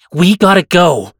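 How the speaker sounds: very loud, urgent shout at full volume. Ramirez grabs Katie by the collar after a woman screams; shouted. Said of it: "she shouted as though she couldn't hear herself either".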